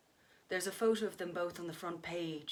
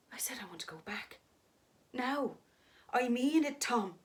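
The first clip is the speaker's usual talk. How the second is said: demanding to leave; 5 semitones higher, 4 dB louder than usual. Acted. Kate demands to go home.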